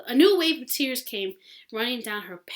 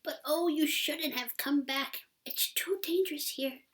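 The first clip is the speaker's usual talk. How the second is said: hoarse whisper; 6 semitones higher than usual. Acted. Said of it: "a hoarse whisper".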